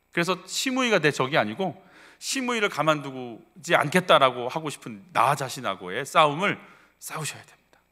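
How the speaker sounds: normal talking voice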